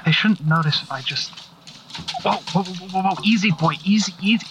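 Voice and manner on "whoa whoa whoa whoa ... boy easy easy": soothing a skittish dog; calming a scared dog. Acted. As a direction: gently settle a jumpy dog. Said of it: "Russell, be quiet".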